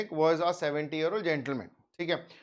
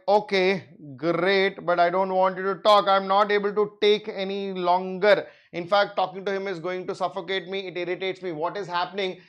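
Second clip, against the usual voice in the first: irritated doctor; 2 semitones higher, 3 dB louder than usual. Retold or imitated. Irritated doctor in retold scene.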